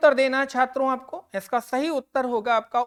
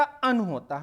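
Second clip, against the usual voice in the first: अन said short as the correct prefix; stress on अन; 3 dB quieter, slower than usual. Shown as a demonstration. Teacher correcting अना to अन. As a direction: give अन a short clipped stress. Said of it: "अना नहीं होता".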